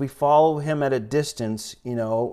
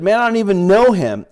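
high, louder protest; vehement denial; 8 semitones higher, 6 dB louder than usual. Acted. Peter disowning Jesus to an accuser, vehement. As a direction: push the denial up high and loud.

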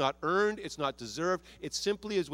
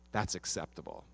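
God's voice; 9 semitones lower, 8 dB quieter than usual. Retold or imitated. Pastor voicing God approving the believer, low and soft. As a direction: lower and much softer, a gentle approving God. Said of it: "And he says".

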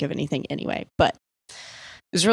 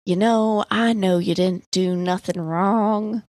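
Southern dad voice; slower than usual. Retold or imitated. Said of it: "really weird Southern dad vibe".

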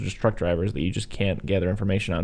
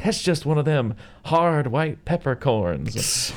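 slow, higher put-on drawl; film character impression; 5 semitones higher, slower than usual. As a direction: draw it out as the chili cook explaining. Voicing Sawyer explaining away tooth.

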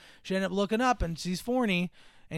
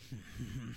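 low, soft grudging chuckle; angry laugh; 7 semitones lower, 15 dB quieter than usual. Shown as a demonstration. She hides that she likes him, grudging angry laugh. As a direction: chuckle as if annoyed at being amused. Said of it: "like, laughing but angrily".

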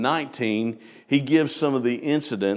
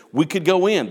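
higher, louder, urgent plea; adamant plea; 7 semitones higher, 4 dB louder than usual. Retold or imitated. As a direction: beg them to believe it. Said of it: "adamant and emotional about it".

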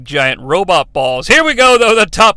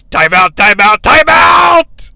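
shouted, higher, slow pleading yells; panicked robot yelling; 4 semitones higher, 6 dB louder, slower than usual. Retold or imitated. Training robot begs Hot Rod to stop, shouting. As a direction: beg for mercy at the top of your lungs. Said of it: "he yells".

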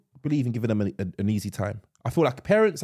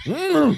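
loud, high mock grunt; mock shaking noise; 14 semitones higher, 7 dB louder than usual. Shown as a demonstration. Dad showing how he shook his kid, loud high grunt. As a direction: act out roughing someone up with a grunt. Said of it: "Well, like, shake him".

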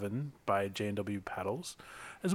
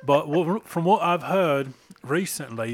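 accidental British lilt, higher and louder; British accent; 4 semitones higher, 6 dB louder than usual. Real, not acted. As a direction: slip briefly into British. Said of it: "Did, did you just turn British?".

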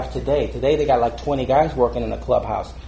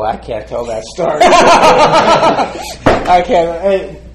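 bursting out laughing; 5 semitones higher, 11 dB louder, slower than usual. Real, not acted. Cracks up mid-story.

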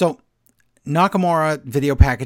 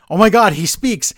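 higher, louder mock amazement; mock surprise; 6 semitones higher, 6 dB louder than usual. Miz reacting to Vinci finally talking, mock astonished. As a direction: act amazed that the silent guy talked. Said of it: "And then Miz goes".

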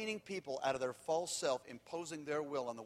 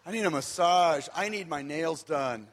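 mock pampered whine; 3 semitones higher, 11 dB louder than usual. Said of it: "it's so not me at all".

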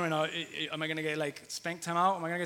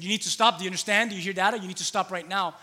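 put-on raised firm questions to a child; louder, clipped parental warning; dad scolding daughter at her level, firm and raised; stern father warning; 2 semitones higher, 7 dB louder than usual. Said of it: "and I said".

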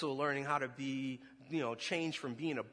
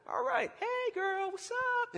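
cocky flirt; slower than usual. Retold or imitated. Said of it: "normally I'd be like".

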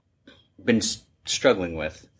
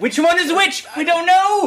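much higher and louder, mock-baffled glee; gleeful outburst; 6 dB louder than usual. Real, not acted. Host joking that nobody can tell the Daves apart, gleeful and loud. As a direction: throw the question out with delighted mock confusion.

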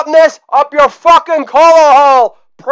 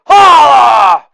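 loud higher holla, dropping at the end; shouted catchphrase; 3 semitones higher, 5 dB louder than usual. Acted. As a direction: belt out holla, pitch falling. Catchphrase shout after joke.

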